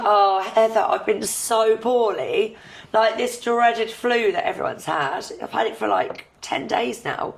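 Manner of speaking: hoarse husky voice while ill; croaky, still recovering from flu. Real, not acted. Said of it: "excuse the, uh, sexy husky voice".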